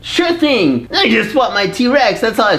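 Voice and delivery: put-on a kid's comic angry outburst; anger in the voice. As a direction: let pretend anger catch in your throat. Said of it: "the anger in the, uh, in the vocal cord".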